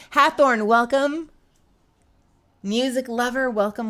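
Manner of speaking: high, loud welcome; excited greeting. Real, not acted. Streamer welcoming a newcomer in chat, excited. Calling out to a viewer.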